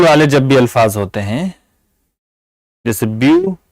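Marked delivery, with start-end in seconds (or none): 3.2-3.6 ब्यूटीफुल broken in three, byu, ti, ful; ब्यूटीफुल in three separate beats; split into syllables. Shown as a demonstration. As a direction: say ब्यूटीफुल with a long gap after each syllable. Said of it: "इसमें तीन syllable हैं".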